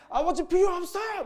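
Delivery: high, loud, whiny brat voice; bratty son's demand. Retold or imitated. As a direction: play the spoiled son shouting at his father. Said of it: "막 이러죠".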